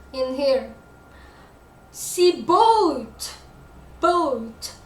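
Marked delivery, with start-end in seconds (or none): 1.9-3.3 BOAT punched higher and louder; strong, falling emphasis on BOAT; stress on BOAT. Shown as a demonstration. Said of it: "It's a stress word". 4.0-4.7 BOAT said firmly with a fall; stressed BOAT. Shown as a demonstration. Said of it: "It's a stress word".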